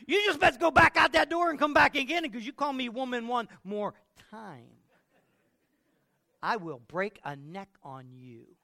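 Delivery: high, loud indignant wife; wife threatening husband who called her woman; sassy threat. Acted. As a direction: scold him straight back out the door.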